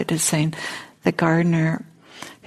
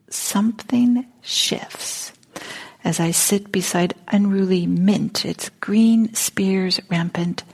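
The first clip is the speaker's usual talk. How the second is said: put-on Southern accent. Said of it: "my Southern accent that I try to do here".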